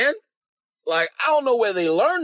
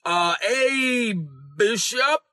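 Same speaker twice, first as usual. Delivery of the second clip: stretched-out higher mock greeting; imitating people who avoid the title; mock denominational believer; 5 semitones higher, much slower than usual. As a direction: drag out a hesitant, higher hello, searching for a title. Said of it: "They'll be like".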